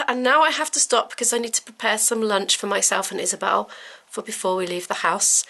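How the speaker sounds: ordinary talk, nothing marked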